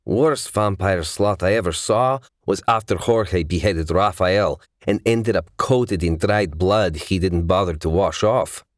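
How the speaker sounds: hint of a seasoned hunter recalling a gruesome case; lightly voiced vampire hunter. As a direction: lightly act a fighter swapping stories.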